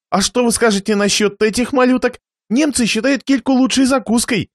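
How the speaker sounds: повышенный, заискивающий голос хозяина; осторожно предложи другую закуску; любезный хозяин. Acted. Хозяин отвлекает гостя от икры. (вкрадчиво, повыше)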